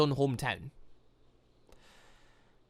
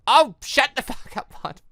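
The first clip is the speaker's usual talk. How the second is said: laughing retort; 9 semitones higher, 6 dB louder than usual. Real, not acted. Streamer telling the smug villain off, laughing. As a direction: laugh through the insult.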